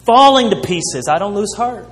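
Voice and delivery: firm, declaring it with conviction; confident. Retold or imitated. Preacher quotes Paul's bold declaration, confidently. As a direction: proclaim it, sure of yourself. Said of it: "He declared confidently".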